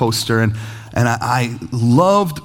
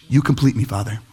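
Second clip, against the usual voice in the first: mock-tender child; 5 semitones lower than usual.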